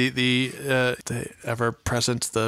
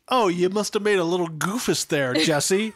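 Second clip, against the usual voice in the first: high, fast, patronising taunt; mock condescending; 5 semitones higher than usual. Imitating Zach talking down to Jesse, high and mocking. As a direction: talk down to her in a sing-song. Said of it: "he's acting like".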